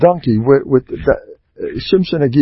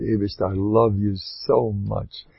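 tender prayer; 3 semitones lower, 6 dB quieter than usual. Shown as a demonstration.

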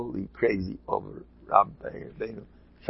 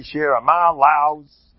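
put-on German Yeki accent; 3 semitones higher, 5 dB louder, much slower than usual. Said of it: "the way Yeki say".

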